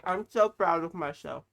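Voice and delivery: loud victorious cheer; triumphant shout. Real, not acted. Bragging to viewers after the chip challenge, loud and proud.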